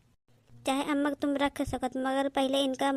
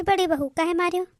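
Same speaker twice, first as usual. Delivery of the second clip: raised, louder scolding question; stern confrontation; 4 semitones higher, 5 dB louder than usual. Acted. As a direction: confront the daughter-in-law sharply. Mother-in-law confronts elder daughter-in-law.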